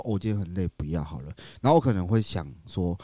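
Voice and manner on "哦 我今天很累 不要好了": tired excuse. Retold or imitated. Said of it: "可能当天我可能说".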